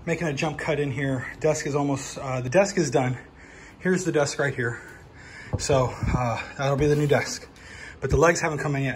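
panting a bit between words, out of breath. Real, not acted. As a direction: talk while still catching your breath after the stairs. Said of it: "I'm out of breath because I had to carry up these boxes".

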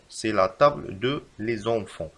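slow, even reread; slow repeat. Shown as a demonstration. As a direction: repeat it slowly. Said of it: "فالخطأ في هذه الجملة".

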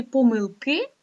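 помилки with the final И stressed; stress on last syllable. Shown as a demonstration. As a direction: lean on КИ in помилки. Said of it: "наголос іде тільки на останню голосну".

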